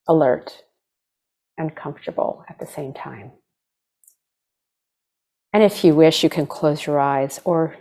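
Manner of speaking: unhurried meditation guide, long pauses between phrases; guided meditation. Acted. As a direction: gently lead them into stillness, leaving space to breathe.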